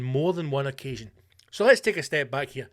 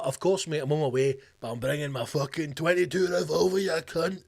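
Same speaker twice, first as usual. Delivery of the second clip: hard-man threat. Retold or imitated. Voicing owner as a hard man.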